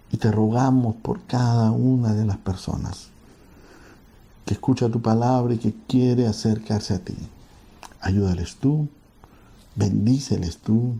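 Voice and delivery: a pastor praying aloud, unhurried and earnest; earnest prayer. Acted. Pastor prays for the listeners, earnest prayer voice. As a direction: lay each request before God gently.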